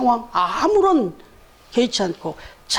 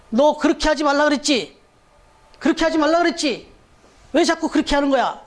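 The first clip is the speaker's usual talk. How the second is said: mild mock scolding, raised pitch; retold scolding; 4 semitones higher than usual. Mother telling off her child at the elevator, mock scolding. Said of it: "엄마가 막 야단을 치더라는 거야".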